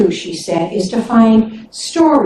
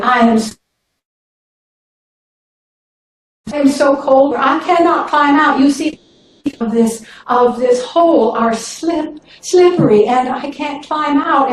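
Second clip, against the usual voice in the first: higher, pleading snake voice; a raised, pitiful plea; 3 semitones higher than usual. Acted. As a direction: guilt him into helping.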